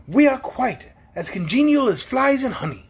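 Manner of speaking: high, simple-minded pumpkin man; cheerful and high; Pumpkinhead voice. A narrator's reading.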